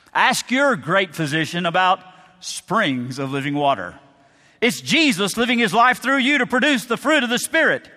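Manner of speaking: pitchman voice selling Living Water, lightly hammed; lightly voiced commercial announcer; mock drug commercial. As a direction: read it like a TV ad spot. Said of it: "I'd make a commercial for Living Water".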